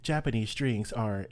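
slow, hammed-up fake European accent; slightly slowed mock European accent. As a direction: mimic a European professor saying it on TV, slowly. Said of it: "in a fake European accent".

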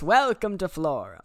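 a hint of a pirate impression; Hondo. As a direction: quote the pirate with some volume. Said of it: "I can hear his voice".

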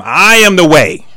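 slow, weighty I am the way; solemn Jesus. Retold or imitated. Preacher voicing Jesus to Thomas, slow and weighty. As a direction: stress AM, slow and firm. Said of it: "Jesus said to him".

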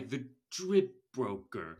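confused voice. Retold or imitated. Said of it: "He sounds very confused".

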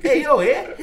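loud, high fake Canadian, nearly Irish; mock Canadian accent. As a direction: call out in a botched Canadian accent, laughing. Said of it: "That sound like some, like, Ireland, Irish stuff".

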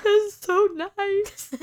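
high, slow, teary-sounding; near tears. Retold or imitated. Touched by the boss's text, imitating her teary high voice. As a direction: stretch it out, almost crying. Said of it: "I almost started crying again".

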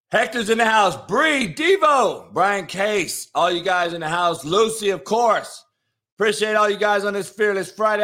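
lost voice from yelling; rasping after a night of yelling; hoarse voice. Real, not acted. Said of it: "I've lost my voice".

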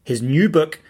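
measured announcer read with deliberate phrasing; guest introduction read. Acted. Host introduces Evan Carmichael to listeners, scripted announcer read.

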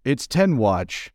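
hint of a German wife, proudly slow; mock German wife. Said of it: "And then the wife goes".

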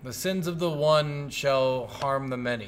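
slow, measured decree, lightly put on; a hint of a god intoning a law; godly voice. Co-host correcting the quoted cardinal rule, lightly godly. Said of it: "you hear a godly voice say".

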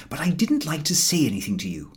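whispered confidence; confiding Harris. A narrator's reading. Harris confiding in George, whispered. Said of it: "said Harris".

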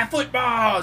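put-on high, loud little-kid cheer; toddler cheering. Daughter cheering when the game comes on, high. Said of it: "And she's like".

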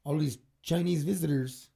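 lightly imitated Canadian accent; mock Canadian accent. Joking that Canada's too nice, mock Canadian accent. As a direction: put on a mild Canadian accent. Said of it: "that was my C-, Canadian accent".

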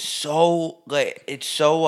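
slow, stretched Texas-free "so" held long; drawn-out so. Shown as a demonstration. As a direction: draw out "so" slowly before stalling. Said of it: "I don't wanna say another word emphasized again".

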